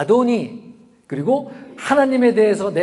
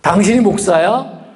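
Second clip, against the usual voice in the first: mock indignant challenge, louder; acted marital jab, rising question; quarrelling wife; 3 semitones higher, 6 dB louder than usual. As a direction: snap it like a spouse mid-argument. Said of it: "아내하고 만약에 싸우다가".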